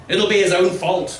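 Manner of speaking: villager voice. Acted. Villagers speaking of the mute.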